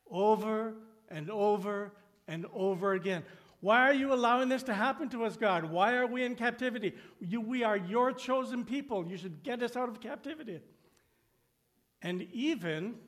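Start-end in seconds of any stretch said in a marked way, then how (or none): 3.6-10.6 faster, higher and louder, a pleading whine; whiny complaining. Retold or imitated. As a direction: whine at God like an ungrateful crowd. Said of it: "they whined, they complained".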